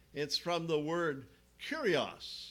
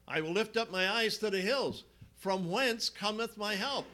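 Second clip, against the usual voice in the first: psalm recited aloud; 6 semitones higher, 3 dB louder than usual. Acted.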